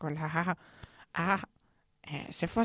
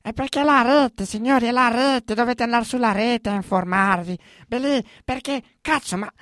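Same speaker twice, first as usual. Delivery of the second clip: ranting; 4 dB louder than usual. Acted. Ranting at the young listeners.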